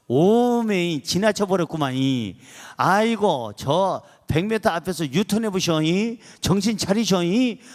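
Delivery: playful Jeolla-dialect navigation voice. Acted. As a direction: imitate a satnav scolding in Jeolla dialect. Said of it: "전라도 버전 한번 눌러봅니다". (전라도 사투리 내비게이션 흉내)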